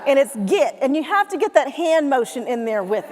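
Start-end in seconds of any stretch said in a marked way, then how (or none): 0.5-0.8 "get" said as Southern "git". Shown as a demonstration. Explaining Southern dialect, "get" said as "git". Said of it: "Southern dialect, but let me explain".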